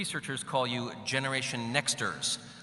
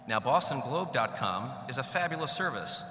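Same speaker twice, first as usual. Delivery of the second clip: reverb. Real, not acted. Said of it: "Sorry about the reverb".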